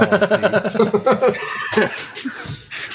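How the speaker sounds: high burst of real laughter; sudden laugh at a silly name. Real, not acted. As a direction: break out laughing.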